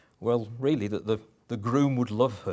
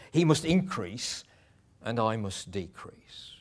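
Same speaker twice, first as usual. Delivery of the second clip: with passion; slower than usual. Shown as a demonstration. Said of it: "He says it with passion".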